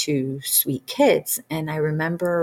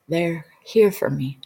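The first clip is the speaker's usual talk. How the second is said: frightened whisper. Retold or imitated. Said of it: "I kinda cried".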